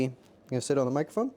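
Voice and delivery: ordinary talk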